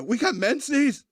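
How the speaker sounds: high, drawn-out baffled question; incredulous misreading. Retold or imitated. Wilder's character repeats what he lip-read from the attorney, incredulous.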